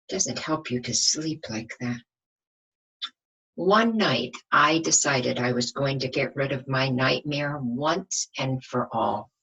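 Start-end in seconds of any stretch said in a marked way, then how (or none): 3.6-9.3 lively storybook reading for the class; reading to children. A narrator's reading. Teacher reading a bedtime story to young children, lively storybook voice. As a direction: read it out like a picture book to children. Teacher reads picture book aloud.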